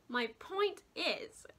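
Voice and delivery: talking through hiccups; hiccuping. Real, not acted. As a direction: speak while the hiccups catch you. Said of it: "sorry, I'm hiccuping".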